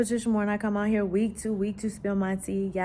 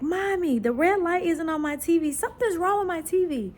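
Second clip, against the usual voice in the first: high childlike voice, imitating her girl; little daughter; 9 semitones higher than usual. Mom imitating her daughter about the broken TV, high childlike voice. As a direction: voice the small girl's worry up high.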